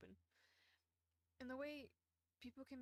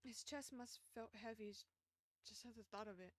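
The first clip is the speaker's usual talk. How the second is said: story narration; 3 dB quieter than usual. A narrator's reading. Streamer reading the novel's text to chat, in a soft storytelling voice. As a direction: narrate the scene gently, slowing down.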